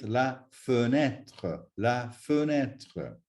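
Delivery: "fenêtre" with uh first, then open eh; circumflex ê sound. Shown as a demonstration. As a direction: say "fenêtre" with the stressed vowel opened to eh. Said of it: "followed by the accent with a circumflex".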